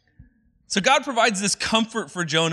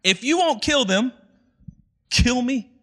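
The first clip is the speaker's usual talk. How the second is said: higher, melodramatic plea to die; dramatic Jonah; 3 semitones higher than usual. Retold or imitated. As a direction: beg God like a sulking drama queen. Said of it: "so he says".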